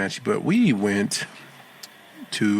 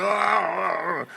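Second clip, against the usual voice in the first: high drawn-out groan; high, strained "oh" of cramp; mock pained groan; 9 semitones higher than usual. Mimics a Charlie horse cramp.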